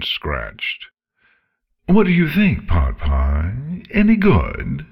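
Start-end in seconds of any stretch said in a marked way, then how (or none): 1.9-4.8 high, loud teasing dragon. A narrator's reading. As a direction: ask like a smug dragon. Dragon Scarlet asks.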